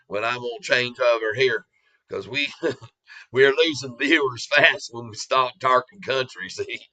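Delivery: a hint of a down-south country accent; country western accent. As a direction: play a folksy Southern country boy. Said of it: "on my country western accent".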